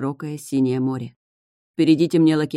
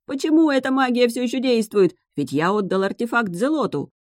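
отчаяние; 8 semitones higher than usual. A narrator's reading. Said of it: "в отчаянии".

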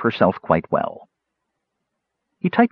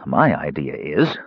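bluntly; 3 semitones lower, slower than usual. Acted. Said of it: "he said bluntly".

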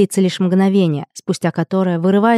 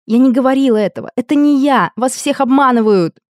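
desperate protest; 5 semitones higher than usual. Acted. Heroine's inner protest.

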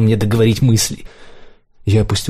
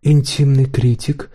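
higher, slow probing question; 5 semitones higher, slower than usual. A narrator's reading. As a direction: quiz him slowly. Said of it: "расспрашивал меня".

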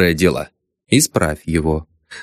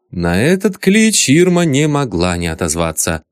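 ordinary delivery, nothing marked

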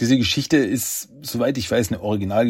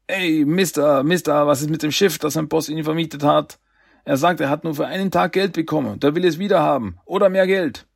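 high, urgent islander; breathless; 6 semitones higher than usual. Acted. Islander runs up demanding money for the boat, breathless. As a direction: gabble it with a touch of breathlessness. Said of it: "stand jetzt atemlos vor ihm".

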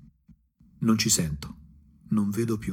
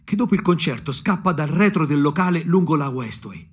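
più alto e più forte, con foga crescente; crescendo appassionato; 5 semitones higher, 4 dB louder than usual. Acted. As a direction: insegui un cantante con tutta l'ansia. Chasing idol, rising passion. (voce accesa che sale di passione)

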